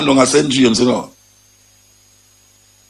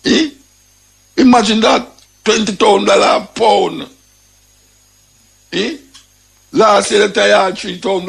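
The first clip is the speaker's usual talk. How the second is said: outraged disbelief; 6 semitones higher than usual. Real, not acted. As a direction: exclaim the price in disbelief. Outrage at ganja price.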